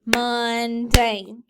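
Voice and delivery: each beat given its own push, mun-dane; clapped syllables. Shown as a demonstration. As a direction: clap the two beats of Mundane as mun-dane. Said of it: "Clap it".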